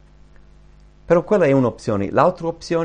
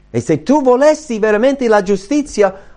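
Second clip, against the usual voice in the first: forceful challenge; 9 semitones higher, 5 dB louder than usual. Acted. Preaching challenge.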